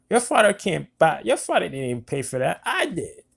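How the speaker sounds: high, slurry mock of a drunk woman. Regina mocking the father, in a high drunk voice. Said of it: "her intoxicated tone".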